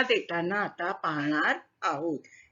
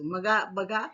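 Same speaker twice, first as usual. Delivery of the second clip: usual speaking voice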